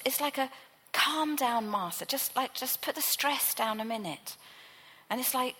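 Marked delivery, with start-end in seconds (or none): 0.9-4.4 kindly. Acted. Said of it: "he goes to her so kindly".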